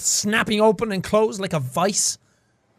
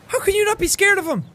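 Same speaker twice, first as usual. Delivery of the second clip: high, squealing delight; gushing; 13 semitones higher than usual. Acted. Hero squeals over a frog riding a turtle. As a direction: gush over how cute it is.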